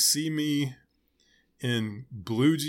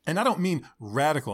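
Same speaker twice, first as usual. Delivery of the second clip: upbeat youth pastor; 3 semitones higher than usual. Acted. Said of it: "the random youth pastor voice".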